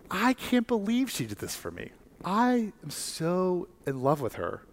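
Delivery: high, delighted proud father voice. Retold or imitated. Preacher voicing God who gushes over his daughter, high and delighted. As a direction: gush with pride over her.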